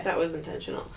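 soft, low-key ASMR-like delivery. Real, not acted. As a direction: drop the volume as if doing ASMR. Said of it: "now your A S M R voice".

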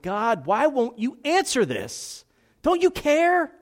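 slow plea that breaks high and loud on the last words; desperate pleading prayer. Acted. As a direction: cry out to God as if unheard. Acted desperate prayer to God.

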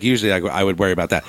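ordinary delivery

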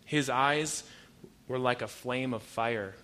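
slow, weighty reading of the verse; a preacher slowly reading scripture aloud. Shown as a demonstration. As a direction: read it slowly like holy writ. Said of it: "Revelation nineteen twelve says".

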